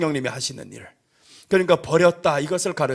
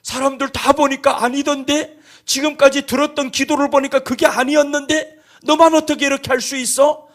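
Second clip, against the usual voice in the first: amazed Lord; 8 semitones higher than usual. Pretend. Preacher voicing the Lord marvelling at a joyful believer, high amazed voice. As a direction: ask it wide-eyed in disbelief.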